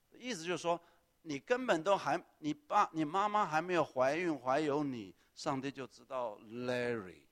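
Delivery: loud, emphatic preaching that slows at the end; fervent preaching. Real, not acted. Pastor explaining the psalm to Larry, loud fervent preaching. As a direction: drive the point home with full force.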